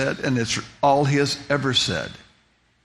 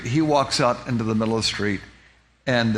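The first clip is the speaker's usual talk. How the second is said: ordinary talk, nothing marked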